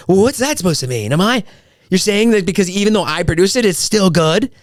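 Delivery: high-pitched mock indignation; imitating offended ex-wife. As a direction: challenge it as an insulted ex. Ex-wife's offended call, retold.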